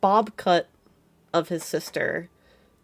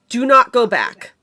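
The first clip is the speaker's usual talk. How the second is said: loud, raised-pitch warning cry; desperate shouting; 5 semitones higher, 10 dB louder than usual. Acted. Durdrin shouting at the party to turn away, top-of-lungs shout. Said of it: "shouting at the top of his lungs".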